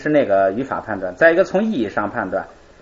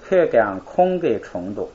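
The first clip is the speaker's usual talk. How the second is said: slow model reading; slower than usual. Shown as a demonstration. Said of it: "咱们来读一读啊".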